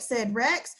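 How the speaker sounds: put-on storybook read-aloud for kids; story reading. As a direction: read it like a bedtime picture book for the class. Teacher reads a picture book aloud.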